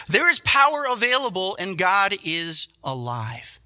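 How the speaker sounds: high, loud power then slow God is alive; preached declaration. Shown as a demonstration. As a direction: proclaim it with full force. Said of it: "get back into God's word".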